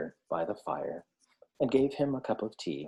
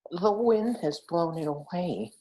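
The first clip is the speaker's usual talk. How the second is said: sad hedgehog; 8 semitones higher than usual. A narrator's reading.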